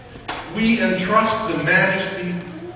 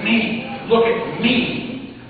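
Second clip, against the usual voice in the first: voice of God. Acted. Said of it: "God jabbing his thumbs into his own chest to say".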